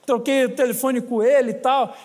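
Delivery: ordinary talk, nothing marked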